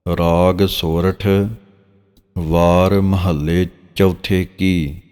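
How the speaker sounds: drawn-out, measured reading of sacred verse; slow scripture recitation. Shown as a demonstration. Teacher reciting Gurbani verse for students, slow and measured. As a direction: recite each phrase slowly and reverently. Reads heading slowly.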